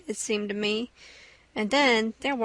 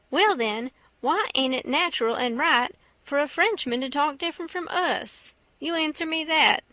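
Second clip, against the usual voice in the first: lightly voiced boy in debate; mildly triumphant challenge; Huck pressing his point; 3 semitones higher than usual. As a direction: press the question, rising toward the end.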